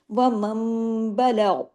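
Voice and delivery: slow وَمَنْ بَلَغَ with a heavy, unshaking ghain; tajweed recitation; heavy steady ghain. Shown as a demonstration. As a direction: stop firmly on بَلَغَ. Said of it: "بَلَغَ جماؤ کے ساتھ اور heavy".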